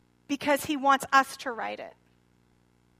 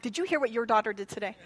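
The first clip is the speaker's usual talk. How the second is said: bickering parent; 4 semitones lower, 3 dB quieter, much faster than usual. Retold or imitated. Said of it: "It's like when parents are fighting".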